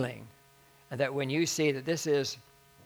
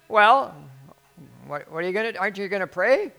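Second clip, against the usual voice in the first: loud, impatient mock scolding; imitated bawling out; 4 semitones higher, 8 dB louder than usual. Lady prodding the pastor to pray, mock impatient scolding. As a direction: demand it with raised voice. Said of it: "bawling me out".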